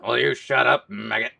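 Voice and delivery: barking drill sergeant yell; soldier impression. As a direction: bark it like a drill sergeant at a recruit. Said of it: "my stinking soldier impression".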